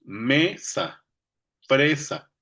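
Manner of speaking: mesa, fresa with a drawn-out stressed E; MEE-sa, FREE-sa, demonstrating the rhyme; stressed rhyme vowel. Shown as a demonstration. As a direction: stretch ME in mesa and FRE in fresa. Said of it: "desde la última vocal acentuada".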